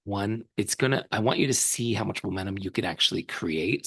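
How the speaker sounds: hoarse, voice giving out; losing voice. Real, not acted. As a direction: push through a hoarse, fading voice. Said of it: "Sorry, I'm losing my voice".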